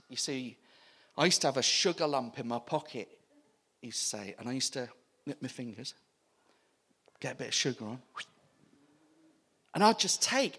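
lightly voiced old Bert, low and soft; a hint of an elderly man, low and hushed; low quiet old man. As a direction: murmur it like an old man confessing. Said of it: "He goes".

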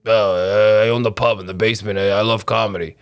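lightly voiced pub owner complaining; Jimbo's voice. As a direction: grumble mildly about the city as Jimbo. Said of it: "that's the voice I would have expected".

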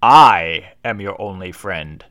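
slow heavy villain voice; slow villain parody. Acted. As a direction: intone it like a dark lord. Parody Vader line.

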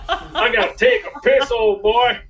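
lightly voiced blustery southern cartoon rooster. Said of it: "mine sounds like a cartoon character".

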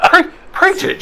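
high mock preacher cheer; the preacher cheers on his new follower in a high mock revival voice. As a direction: cheer him on like a revival crowd.

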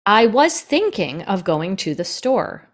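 slow, word-by-word read of a sentence; stilted reading. Shown as a demonstration. Narrator showing how a written line reads, stilted and slow. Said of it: "you don't ever say it that way".

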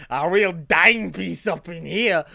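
put-on broad New Jersey accent, impressed; Tony Danza. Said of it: "let's retire these accents".

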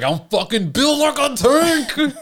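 mock bragging. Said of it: "And I was like".

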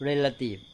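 relative with the stress on REL; stress example. Shown as a demonstration. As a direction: stress the first syllable of relative, REL-a-tive. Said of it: "เน้นคนละที่ ออกเสียงคนละอย่าง".

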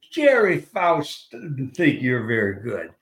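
slow Southern drawl; imitating a coach's Southern accent; heavy Southern accent. Southern coach putting down a rookie, slow heavy accent. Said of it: "real heavy Southern accent".

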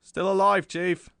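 loud, high, cheery call; chirpy. A narrator's reading. Reporter greeting his chief at the door, chirping. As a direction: chirp it out brightly, pitch lifted. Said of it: "he chirped".

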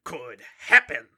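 a hint of a grave vampire dad telling his tale; lightly voiced dramatic father.

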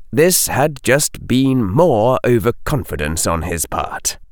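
ordinary delivery, nothing marked

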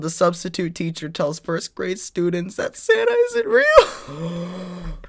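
high, slow, building to an upset cry; mock tearful. Co-host reading a sad article about Santa, mock distraught. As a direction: read it as if badly faking heartbreak.

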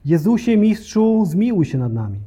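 retold pleading call. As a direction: imitate a prayerful call for mercy, starting high. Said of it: "wznieśli głos w modlitwie i błaganiu".

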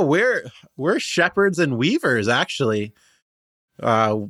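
lightly voiced cheerful halfling guide; a hint of an eager shepherd halfling, chatty; friendly halfling Benji. Halfling guide explaining his band to the travelers, lightly voiced.

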